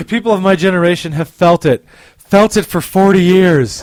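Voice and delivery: milk it like a romance novel; romance novel narrator. Pretend. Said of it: "my romance novel voice".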